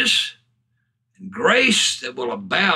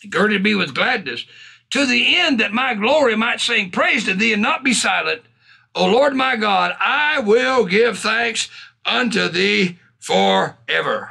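raised, declaimed psalm; preached scripture reading; 5 semitones higher than usual. Acted. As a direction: build into a proclamation, stretching the last words. Proclaims psalm to congregation.

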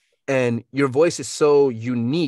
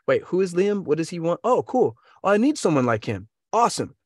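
lightly acted curiosity, pitched higher; mock interested reader; 5 semitones higher than usual. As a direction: play someone perking up at an email. Acting out an interested email reader.

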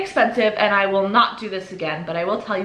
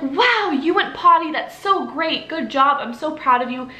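high, slow, gushing cheer that settles down by the end; enthusiastic praise; 6 semitones higher than usual. Shown as a demonstration. Parent showing how to praise a child's potty success, gushing and high. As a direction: cheer the child on as if it's huge news. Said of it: "you wanna be like".

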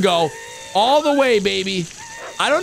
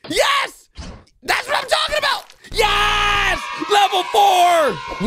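excited cheering; 11 semitones higher, slower than usual. Real, not acted. Gamer cheering his crewmate's blaster shot, very high triumphant yells. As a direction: cheer like your team just won.

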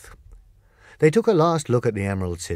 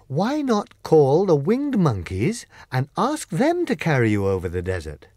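proposing the plan carefully; 6 semitones higher, 3 dB louder than usual. Acted. Scarecrow suggests idea.

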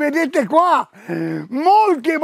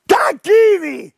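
drawn-out proclamation; 4 semitones higher, 4 dB louder, slower than usual. Acted. Presenter proclaims the brand again.

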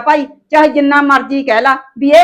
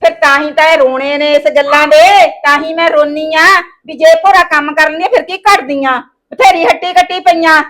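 raised, bitter complaining; loud complaint; 3 semitones higher, 5 dB louder than usual. Acted. Daughter-in-law complaining loudly about the work. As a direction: hit back at her loudly.

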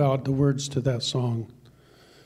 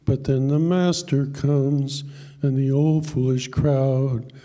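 poem recitation; slower than usual. Acted. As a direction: tell the poem like a heartfelt country ballad. Recites a poem over music.

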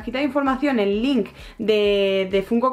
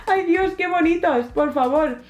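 delighted; 6 semitones higher, slower than usual. Real, not acted. Admiring the figures.

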